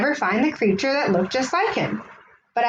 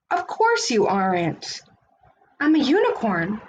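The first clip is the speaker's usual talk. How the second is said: knowing friend. Acted. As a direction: shrug it off kindly. Friend's reply.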